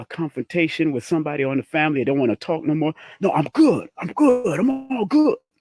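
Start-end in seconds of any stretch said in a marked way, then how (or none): 3.2-5.4 irritated, angry, dismissive tone at very high pitch. Demonstrating how someone shuts down a family confrontation; demonstrating anger. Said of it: "That's anger".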